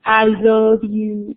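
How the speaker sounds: put-on slow, sing-song baby talk; toddler saying I love you. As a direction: coo it slowly like a small child. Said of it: "A lot of them will say kiss".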